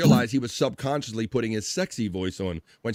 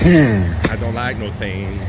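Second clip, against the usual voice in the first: slow, louder imitation of Mike Tyson's lisp; 4 semitones lower, 7 dB louder, slower than usual. Mimicking Mike Tyson for the chat, slow lisped Tyson voice. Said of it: "like Mike Tyson saying Shane with an accent".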